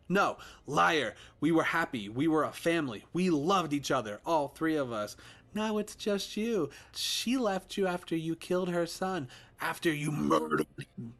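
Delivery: put-on high, loud child's voice, bitter; a wounded boy turning cruel; accusing child. Ghost son accusing daddy, high and loud.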